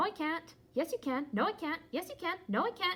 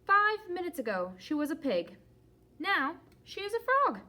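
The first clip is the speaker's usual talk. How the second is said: alarmed; 3 semitones higher, 5 dB louder than usual. Acted. Gerald marvels aloud, alarmed.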